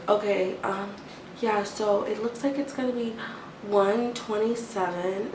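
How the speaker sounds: soft hesitant clerk mimicry; mock her quiet mumbling; whispering clerk. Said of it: "she's still whispering".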